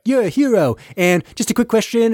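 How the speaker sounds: high, careful flattery; mock admiration. Everyone greets the victorious captain, high and tentative. Cheering, then gingerly questioning the hero.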